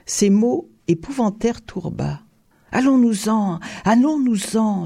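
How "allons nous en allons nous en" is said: higher-pitched, urgent plea; pleading. A narrator's reading. Terrified Tourba begs the count to leave, pleading. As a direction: beg to get away at once. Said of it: "supplia-t-il".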